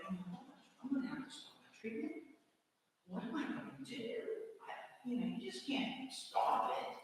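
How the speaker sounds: high, fast, breathless panic; panicked inner voice. Retold or imitated. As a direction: race through it in rising fear. Panicked thoughts after losing job.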